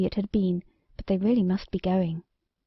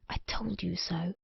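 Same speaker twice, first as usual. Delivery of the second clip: soft breathy whisper; 2 semitones lower, 11 dB quieter than usual. A narrator's reading. Queen whispering to the king, a soft whisper. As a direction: murmur it privately to him, under the breath.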